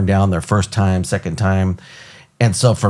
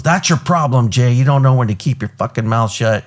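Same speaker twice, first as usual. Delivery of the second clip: pissed-off boss; 4 semitones higher than usual. Retold or imitated. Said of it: "So then he gets all pissed off".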